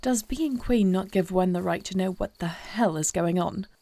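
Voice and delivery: short-tempered demand. Acted. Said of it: "short-tempered".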